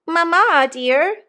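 put-on high, childish lisp; lisping little girl. A narrator's reading. Little Jane appealing to her mamma, lisping and high. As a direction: plead in a small child's high voice. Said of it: "lisped the little girl".

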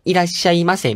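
いらっしゃいませ in an odd automated-announcement lilt; odd announcement intonation. Retold or imitated. Host mimicking odd announcements, いらっしゃいませ with unnatural intonation. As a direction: give いらっしゃいませ a strange, unnatural announcer tune. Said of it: "どういうイントネーションで喋ってんの".

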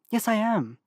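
teeth clenched, forced out; through gritted teeth. Acted. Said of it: "said through her teeth".

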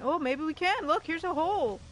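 thrilled at finding the hole; lively game excitement; excited. Real, not acted.

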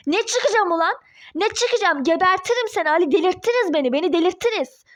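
heated, agitated refusal; angry defiance. Acted. Ex-wife refuses to leave Ali's office, raging. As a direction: refuse furiously, at the end of your tether.

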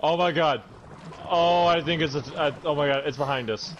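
追われて慌てた声; 後ろの怪物に気づいて叫ぶ; being chased. Real, not acted. Creature spotted behind them.

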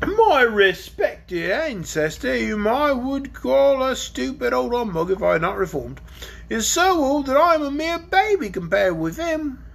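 a lightly voiced gruff old dragon, slow at first. Dragon telling the children about his ancestor, lightly voiced. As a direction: play the dragon, grumbling about his grandpa.

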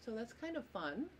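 talking through a yawn; words stretched by a yawn. Real, not acted. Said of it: "I'm sorry, I'm yawning".

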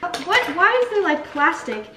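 jolted by what she finds; startled surprise. Real, not acted.

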